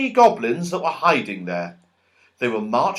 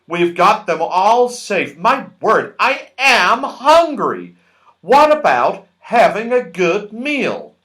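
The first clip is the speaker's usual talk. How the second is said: higher, louder, slow self-satisfied voice; pleased Moonface; 4 semitones higher, 5 dB louder than usual. A narrator's reading. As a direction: sound delighted with yourself. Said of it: "pleased with himself".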